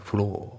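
"フロー" with a long o and no final r; British-style floor, r left silent. Shown as a demonstration. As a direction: let フロー end on a plain long vowel. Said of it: "このRがあまり".

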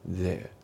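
THERE ending on an open vowel, "theh"; British silent R. Shown as a demonstration. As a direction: drop the R in THERE. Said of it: "響かないですね".

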